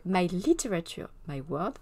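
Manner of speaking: lightly put-on English accent. Shown as a demonstration. Streamer naming a follower's blog, in a playful English accent. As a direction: say it in your best English accent. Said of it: "avec mon bel accent anglais".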